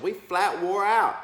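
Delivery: loud, slow Southern twang; exaggerated Southern accent, pitched high and loud; southern drawl. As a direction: ham up a worn-out Southern prayer warrior. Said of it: "the southern intercessor said".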